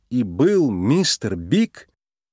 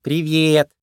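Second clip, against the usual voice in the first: sweet, higher-pitched greeting; affectionate; 4 semitones higher than usual. A narrator's reading. Bride greets the rabbit who saved her, affectionate. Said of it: "ласково сказала она".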